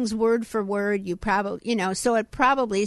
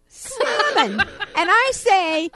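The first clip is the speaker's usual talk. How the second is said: laughing; 9 semitones higher, much slower than usual. Real, not acted. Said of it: "laughing at the word".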